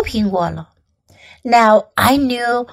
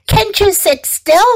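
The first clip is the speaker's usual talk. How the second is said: mild, high-pitched scolding; mom yelling; 6 semitones higher than usual. A narrator's reading. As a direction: scold from afar without full volume. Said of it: "yelled Mom".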